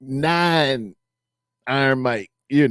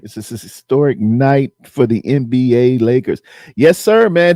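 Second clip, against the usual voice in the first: mock breaking news; 6 dB louder than usual. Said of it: "That was my breaking news coming in".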